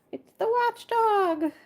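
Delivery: high, slow squeal of fright; frightened high cry. Acted. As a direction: shriek it out in terror. Frightened creatures cry warning.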